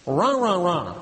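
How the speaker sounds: imitated grumbling "rah, rah, rah"; grumbling noise. Shown as a demonstration. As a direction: mimic the murmur of grumblers. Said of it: "sounds like what it is".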